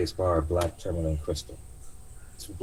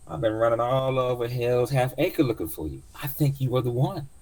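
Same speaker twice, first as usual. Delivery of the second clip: much higher, louder knowing auntie; old cab driver; 7 semitones higher, 4 dB louder than usual. Acted. Driver telling passenger he is the one, high knowing voice. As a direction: reveal it like a mysterious old driver.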